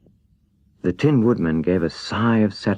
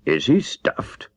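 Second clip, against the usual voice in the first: surprised; 4 semitones higher, slower than usual. Acted. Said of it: "asked the lion in surprise".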